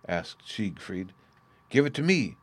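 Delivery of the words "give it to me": cried out. A narrator's reading. Starving brother grabbing at the ring, cried out. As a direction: stress on me, a raised plea ending on a falling me. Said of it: "cried Niblung".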